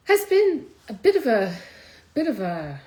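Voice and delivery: fighting back tears mid-sentence; voice catching. Real, not acted. Host telling viewers about a hard year, voice cracking with emotion.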